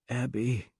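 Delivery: softly mumbled name, barely voiced. A narrator's reading. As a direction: mumble it, dazed and lost. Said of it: "he mumbled".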